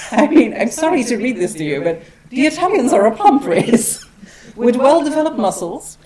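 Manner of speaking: can't keep a straight face reading it aloud; laughing while reading. Real, not acted. Lecturer reading an absurd old text to the audience, laughing.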